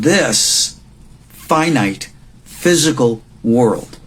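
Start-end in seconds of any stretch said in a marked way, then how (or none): 1.3-4.0 "finite" leaned on, slow; stress on finite. Shown as a demonstration. Teacher marking the key word for students, slow stress on finite. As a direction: weigh down "finite", slowly. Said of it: "Emphasis on that word finite".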